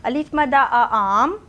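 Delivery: slow, sing-song spelling chant; teacher drilling the class. Shown as a demonstration. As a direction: chant it slowly for children to repeat. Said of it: "five times read करना है".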